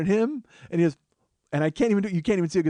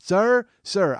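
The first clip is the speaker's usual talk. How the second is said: calling out; 5 semitones higher, 4 dB louder than usual. Retold or imitated. Same scalper still calling him.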